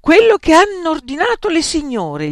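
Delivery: high, loud command; peremptory order. A narrator's reading. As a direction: order the waiter imperiously. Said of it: "gli intimò".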